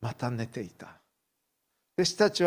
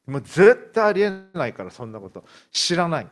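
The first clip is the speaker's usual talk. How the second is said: emphatic denial; 4 semitones higher, 7 dB louder than usual. Acted. Peter denies the second time.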